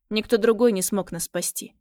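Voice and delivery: usual speaking voice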